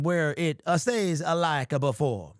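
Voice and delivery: put-on a light Italian Godfather accent; a faint mock Italian mob-movie accent; barely-there Italian Godfather accent. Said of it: "And that is the Italian accent".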